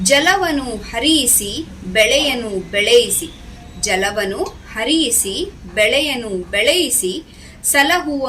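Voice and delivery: measured, rhythmic verse reading; lilting classroom poem reading; poem recitation. Shown as a demonstration. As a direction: recite each phrase clearly for pupils to follow. Recites the third stanza.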